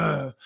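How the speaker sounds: imitated curt grunt; wordless grunt. Imitating Henderson's idea of an elaborate greeting, short grunt. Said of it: "an elaborate sentence for Dan Henderson".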